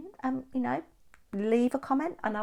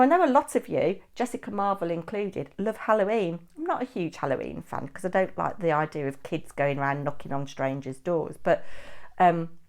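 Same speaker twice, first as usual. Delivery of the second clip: ordinary talk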